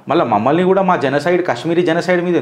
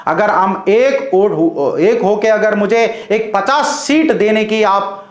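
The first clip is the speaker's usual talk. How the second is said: mock Owaisi speech; slower than usual. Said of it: "అని ఎన్నిసార్లు మీరు మాట్లాడలే".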